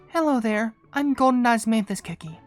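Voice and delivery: lightly voiced, polite visitor; Golden Osmanthus Cookie. Newcomer introducing herself to the kingdom, lightly put-on polite voice.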